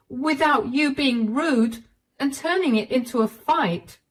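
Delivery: wife begging to be understood; hurt wife. Acted.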